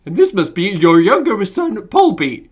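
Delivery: high, loud, unsteady puppet character; wobbly character voice. Acted. Introducing a younger son, all-over-the-shop character voice. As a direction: raise it and let it wander. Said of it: "his voice is gonna be all over the shop".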